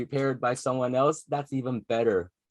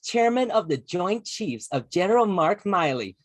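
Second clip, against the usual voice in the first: higher-pitched mock speechifying; put-on, higher recital voice; imitating speech delivery; 6 semitones higher than usual. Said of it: "that's how it sounds like".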